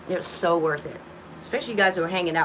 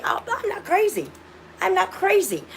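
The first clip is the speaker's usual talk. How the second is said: relieved exclamation; 9 semitones higher than usual. Retold or imitated. Relief at being understood, quoted.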